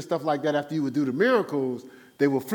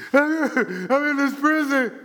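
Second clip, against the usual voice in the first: caged bird; 7 semitones higher, 5 dB louder, much slower than usual. Retold or imitated. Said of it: "It's like the caged birds".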